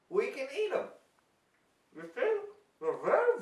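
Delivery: lightly hammed-up science host; like a cheesy kids' TV scientist; kids show host. Hammy scientist demo host.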